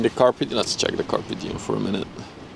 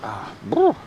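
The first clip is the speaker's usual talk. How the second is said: sour shiver. Real, not acted. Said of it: "sour candy is the best".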